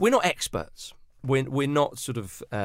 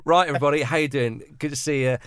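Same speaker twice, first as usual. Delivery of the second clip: Gav; 5 dB louder than usual. Acted. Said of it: "I'd have Gav at the front and go".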